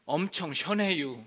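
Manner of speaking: plain-sounding Chungcheong line; Chungcheong dialect. Shown as a demonstration. Pastor demonstrating Chungcheong dialect, Chungcheong speech. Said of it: "충청도는".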